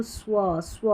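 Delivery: "स्व" as S gliding into a rounded W; rounded-lip SW. Shown as a demonstration. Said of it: "rounded lip sound दे रहा है".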